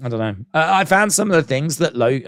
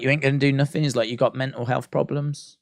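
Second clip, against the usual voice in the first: calm cool Ryback; 5 dB quieter than usual. Retold or imitated. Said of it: "so cool and so calm".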